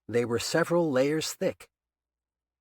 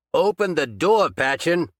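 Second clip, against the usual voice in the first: a bit louder, weaker repeat of the demand; 6 semitones higher, 6 dB louder than usual. A narrator's reading. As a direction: demand again, strength fading. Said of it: "He was weak from the loss of blood".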